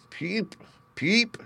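very high chick peep; high peeping duckling. A narrator's reading. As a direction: squeak it like a tiny hatchling. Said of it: "said the little one".

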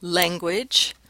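"language" with the vowel of "bed"; short-e pronunciation. Shown as a demonstration. Lecturer showing students the second option, "language" with the bed vowel. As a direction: say "language" as if it began "leng". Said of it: "Others have e".

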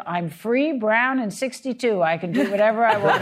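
quoted letter delivered with punchy defiance; defiant quote. Retold or imitated. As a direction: proclaim it like a newly liberated woman. Reads out widow's defiant letter.

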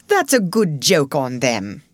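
breathy whispered aside. A narrator's reading. Miss Dixon whispering gossip, whispered. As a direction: whisper it behind your hand. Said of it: "whispering something".

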